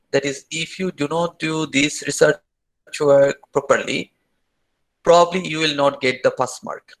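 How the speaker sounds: slow, bold, deliberate warning; emphatic. Real, not acted. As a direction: spell out the threat slowly. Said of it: "I want to say something very boldly".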